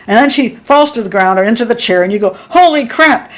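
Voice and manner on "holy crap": higher-pitched shocked exclamation; mock stunned outburst; acted shock. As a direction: play suddenly seeing something awful. Acting out shock at the shooting.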